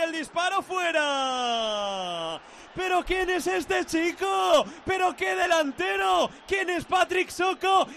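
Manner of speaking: rising excited call; live play-by-play. Real, not acted. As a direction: cry out in wonder at the run. Dazzling run by Soko.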